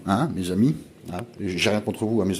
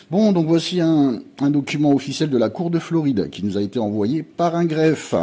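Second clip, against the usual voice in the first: worked up; 5 semitones higher than usual. Real, not acted. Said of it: "je suis un peu vénère".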